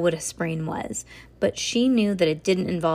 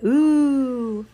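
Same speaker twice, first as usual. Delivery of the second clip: drawn-out, higher cooing ooh; impressed ooh; 5 semitones higher, 4 dB louder than usual. A narrator's reading. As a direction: girls marvelling in a long ooh. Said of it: "Several girls said".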